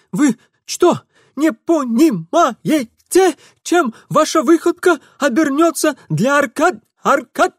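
put-on high, loud alarmed young man's voice; Ingvar protesting. A narrator's reading. Ingvar warns Mitya about the consequences, high and alarmed.

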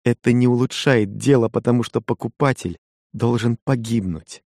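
lightly voiced young wife, hurt and reproachful; Kokua, a hint of a wife's reproach. Kokua plans eagerly. (лёгкий голос обиженной жены)

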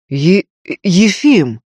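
slow, stammering startled cry; frightened. Acted. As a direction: blurt his name in alarm. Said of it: "испугался Лазарев".

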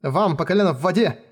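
shaking, pained threat. Acted. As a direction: threaten through pain, voice trembling. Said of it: "Её голос дрожал от боли".

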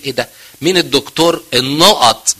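acted sneer at a colleague, stretching the name-calling; scornful mockery. Doctor ridiculing a colleague's prescription to the patient, mockingly. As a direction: put on contempt, dragging out the insult slowly. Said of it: "بسخريه واستهزاء وتقول".

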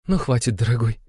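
high, wife through happy tears; tearful joy. A narrator's reading. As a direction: speak through joyful tears. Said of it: "сквозь слёзы радости выговорила графиня".

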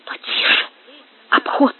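quick half-whispered caution; hushed warning. A narrator's reading. Gomes warning Marcos of the approaching patrol, hushed. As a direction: shush a companion as someone approaches.

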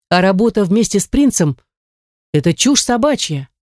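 heated, rising angry rant; angry outburst. Acted. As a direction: snap it out in anger.

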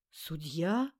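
put-on a young woman's surprised question, rising. A narrator's reading. A girl surprised to find the judge in the grass. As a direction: ask it in disbelief. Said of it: "Удивлённый женский голос".

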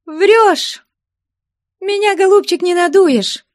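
high, loud cutting retort; sharp outburst. Acted. Suspicious woman interrupting her lover, sharp. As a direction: cut him off with scorn. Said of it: "перебила Устинья".

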